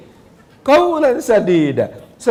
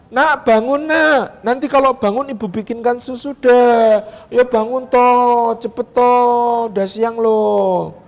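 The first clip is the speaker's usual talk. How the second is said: higher, slow nagging mother voice; impatient wake-up call; 3 semitones higher, slower than usual. Shown as a demonstration. First mother waking her child, higher and nagging. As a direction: nag the child awake impatiently. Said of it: "membangunkan anaknya dengan cara".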